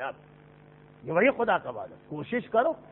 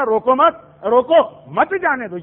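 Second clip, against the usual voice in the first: loud روکو مت, then روکو split from مت جانے دو; shifted pause; 4 dB louder, slower than usual. Shown as a demonstration. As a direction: punch روکو, moving the break before جانے دو. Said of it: "ذرا سا سانس کہاں آپ نے روکی".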